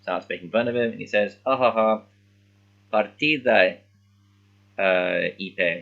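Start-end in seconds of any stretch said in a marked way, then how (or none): 1.5-5.8 mocking kid. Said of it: "being a little monster".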